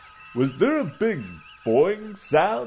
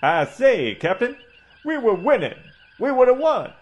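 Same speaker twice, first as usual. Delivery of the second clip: blustering Southern gentleman orator, a touch higher; pompous southern doctor; 4 semitones higher than usual. Acted. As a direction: hold forth like a pompous old Southern colonel. Doc Coburn's southern orator voice.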